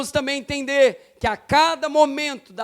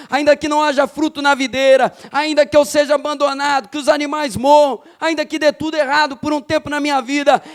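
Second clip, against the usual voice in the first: rapid-fire declarations of faith; fervent preaching. Real, not acted. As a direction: preach it fast and insistent, easing at the very end. (pregação fervorosa e acelerada)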